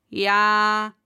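loud, long-held groaning yes; groaned. A narrator's reading. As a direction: groan it out, exasperated. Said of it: "stöhnte er". (gestöhnt)

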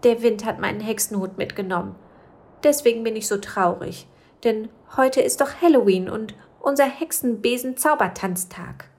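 a small witch pouring out her trouble; sad little witch. Acted. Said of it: "erzählte dann weiter".

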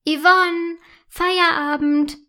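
loud, high call across the house. A narrator's reading. Mother calls the girl to go home.

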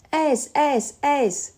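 Jelly shouting the answer first; excited shout. Acted. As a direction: blurt it out eagerly, racing to answer. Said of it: "schreit Jelly".

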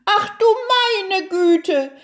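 high-pitched farmer's wife in alarm; shocked exclamation. A narrator's reading. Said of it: "rief die Bauersfrau".

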